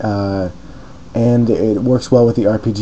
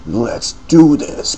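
hyped battle cry; 5 semitones higher, much slower than usual. Acted.

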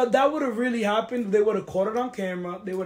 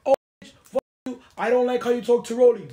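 mock angry; 2 semitones higher, 6 dB louder than usual. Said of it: "be like".

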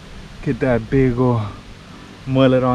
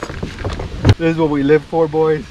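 triumphant shout; 3 semitones higher, 4 dB louder, slower than usual. Real, not acted. Celebrating the catch.

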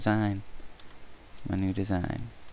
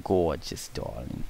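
put-on Brooklyn accent; 3 semitones lower, slower than usual. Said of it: "I sound like I'm from Brooklyn".

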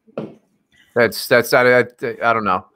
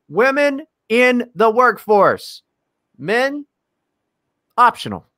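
mock grand pronouncement; 8 semitones higher, slower than usual.

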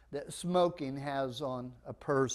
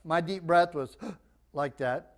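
gasp demo. Shown as a demonstration.

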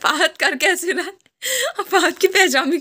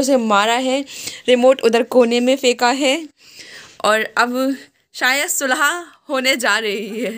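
mock-dramatic narration. Parent reporting the war between child and daddy, mock-dramatic narration. Mock commentary on family pillow fight.

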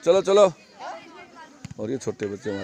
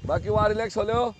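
calling out; 9 semitones higher than usual. Real, not acted. Coach calling to others far off.

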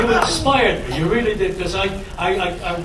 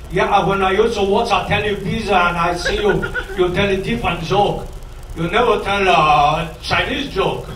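mock Chinese-accented English. Chinese man asks a comic about his jokes, mock Chinese accent. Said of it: "a China guy says to me".

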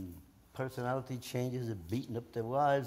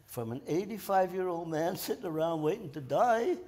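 laughing; 3 semitones higher than usual. Real, not acted. Repeats it laughing at himself.

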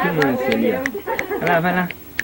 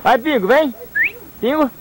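high, lilting call to a pet; calling a dog; 9 semitones higher than usual. Real, not acted. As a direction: coax the dog to come.

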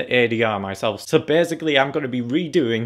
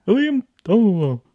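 louder, higher call of the name; 5 semitones higher, 6 dB louder than usual. Acted. Actor calls out name in voice.

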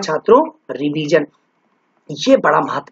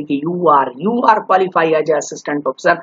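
slow, spaced-out official tagline; proclaimed title; 4 semitones lower, much slower than usual. Acted. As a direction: read out the title slowly, word by word. Imagined official tagline for a successful candidate.

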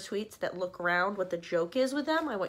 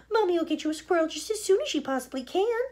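higher, louder sugary promise; placating mother; 9 semitones higher, 5 dB louder than usual. Acted. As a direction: hush the child.

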